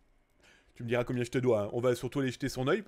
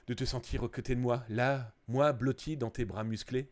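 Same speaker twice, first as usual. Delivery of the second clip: mock tender; 5 semitones lower, 4 dB quieter than usual. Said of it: "Ok, on va se calmer".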